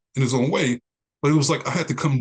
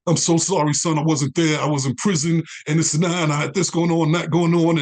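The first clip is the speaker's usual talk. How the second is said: apologetic excuses; 3 semitones higher than usual. Retold or imitated. Father pouring out excuses, retold.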